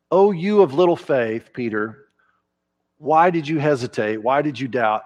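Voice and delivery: mock scolding. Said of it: "a scolding tone of voice".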